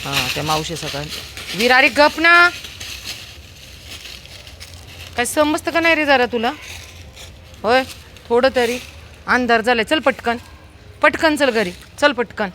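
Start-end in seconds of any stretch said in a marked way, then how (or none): 1.6-8.8 high, loud exasperated scolding. Real, not acted. Mother scolding her son for making noise, exasperated scolding. 9.3-12.5 high, loud urging to hurry. Real, not acted. Mother hurrying her son home in the dark, loud urging.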